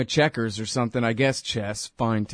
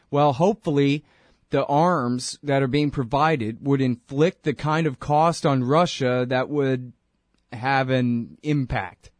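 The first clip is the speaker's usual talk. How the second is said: slow, groping imitation of a pundit stalling; a slowed, hesitant mock of a flustered expert; mock floundering answer; slower than usual. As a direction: drag it out like a man searching for any answer. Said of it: "to hear the tone in his voice as he's desperately searching for some kind of makeshift answer".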